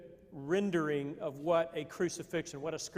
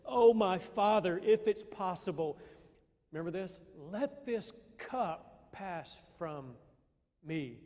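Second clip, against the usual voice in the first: a touch of anguished prayer; slower than usual. Acted. Jesus praying in the garden, pleading then softening. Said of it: "He says".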